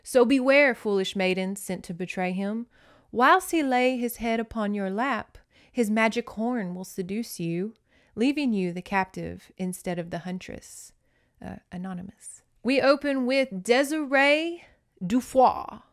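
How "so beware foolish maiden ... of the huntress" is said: measured dramatic reading; storybook recital with weighted opening words; book passage read aloud. A narrator's reading. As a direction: read it out like an old cautionary verse.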